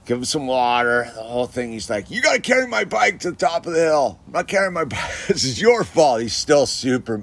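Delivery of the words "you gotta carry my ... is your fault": put-on mad kid. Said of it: "he's super mad at me".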